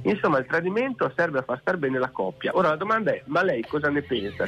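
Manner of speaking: mock-solemn reading over music; dramatic reading. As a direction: read it like a serious passage. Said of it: "vorrei leggergli questo".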